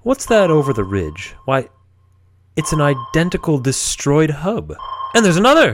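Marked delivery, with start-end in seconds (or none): 5.2-5.7 surprised. Acted. Captain spots another hub.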